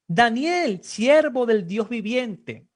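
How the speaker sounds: calling out loudly, slowed on the last words; king's cry. Acted. King calling down into the lions' den, loud and slow. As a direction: cry out the servant's name to the pit. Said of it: "gritó".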